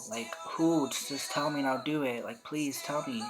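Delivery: ready to fight for him, voiced with a laugh at the end; alarmed protective friend.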